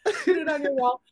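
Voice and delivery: high, loud TV sales pitch; infomercial. Pretend. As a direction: sell it like a late-night ad host. Hypes the sculpture like an ad.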